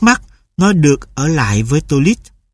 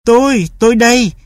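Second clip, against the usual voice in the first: much higher, eager little dog; dog's voice; 8 semitones higher than usual. A narrator's reading. Dog announces itself at the door, much higher and eager. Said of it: "Bim nói".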